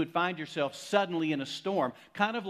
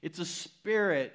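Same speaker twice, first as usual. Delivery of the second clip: disciples crying ghost, raised and slow; mock terrified cry; 4 semitones higher, 4 dB louder, slower than usual. Disciples in the boat seeing a figure on the water, mock terrified cry. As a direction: imitate frightened disciples, higher, drawn out. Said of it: "they t-, cried out".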